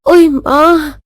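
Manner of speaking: lightly hammed-up faintness; mock swooning complaint; feigned dizziness. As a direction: play weak and woozy for an audience. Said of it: "ये तो नाटकबाजी में दस नंबरी है".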